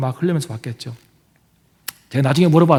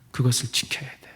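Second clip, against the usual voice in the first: hushed whisper, much softer; 4 semitones lower, 8 dB quieter than usual. Acted. Preacher voicing God's promise to keep the covenant, whispered. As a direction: say it low like a private vow.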